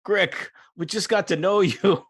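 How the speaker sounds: a touch of mock grief over a fallen friend; grieving hobgoblin. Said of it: "the hobgoblin kind of cradles him".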